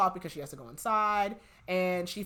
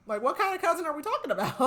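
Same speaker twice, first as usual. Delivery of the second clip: high, quick and laughing; teasing suspicion; 11 semitones higher, 5 dB louder, faster than usual. Retold or imitated. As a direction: needle her with a knowing laugh. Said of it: "And she's like".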